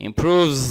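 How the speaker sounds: improves ending in a long buzzing "vz"; voiced z ending. Shown as a demonstration. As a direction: draw out the final z of improves. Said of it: "এই উচ্চারণটা হবে". (improves, শেষে টানা জ ধ্বনি)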